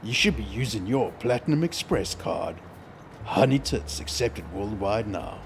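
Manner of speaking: radio announcer pitching a joke product; mock radio ad read. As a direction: sell it like a radio spot.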